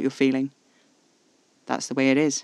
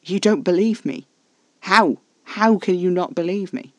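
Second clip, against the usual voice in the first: higher, louder disbelief; incredulous; 5 semitones higher, 6 dB louder than usual. A narrator's reading. Caspar not believed by the narrator, incredulous and raised. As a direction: demand to know how, astonished.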